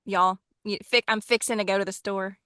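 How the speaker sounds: lightly shown Texan twang, casual; lazy, natural Texan accent. Shown as a demonstration. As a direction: talk like an easygoing Texan. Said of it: "I forget that I even sound Texan".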